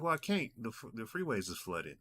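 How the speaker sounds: lightly voiced easygoing uncle; uncle's tone. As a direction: imitate your uncle explaining, unbothered. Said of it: "The tone I'm giving you".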